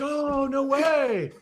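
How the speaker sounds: mock gasp. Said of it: "everyone's like".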